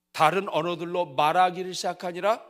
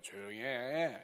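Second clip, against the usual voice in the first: annoyed hush; 4 semitones lower, slower than usual. Pretend. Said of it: "그때 옆에 있는 사람이".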